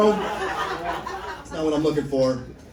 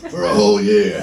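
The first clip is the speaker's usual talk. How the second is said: put-on old lady voice; 7 semitones lower, 8 dB louder than usual.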